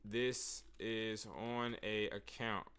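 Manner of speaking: slow and quiet; slow, calm pitch. Shown as a demonstration. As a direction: lay it out slowly and softly. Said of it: "I would say".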